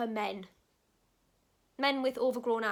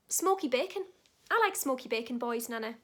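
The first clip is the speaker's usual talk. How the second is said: imagined cheeky answer. Retold or imitated. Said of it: "I should have said".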